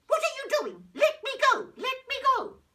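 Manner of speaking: high, loud angry shout. Acted. Old lady shouting at the tree that traps her. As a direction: yell at the tree to let go. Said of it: "so she shouted at the tree".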